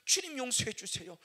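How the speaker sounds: loud cry for forgiveness; pleading prayer. Retold or imitated. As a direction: beg the Lord. Repeated plea.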